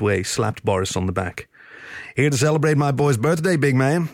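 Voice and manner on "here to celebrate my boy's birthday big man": happy. Acted. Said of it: "the horse said happily".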